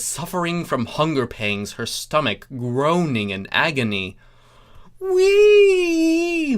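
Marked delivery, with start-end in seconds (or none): 5.0-6.6 very high, loud delighted shriek. Acted. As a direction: let out a gleeful shriek. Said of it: "Luna shrieked".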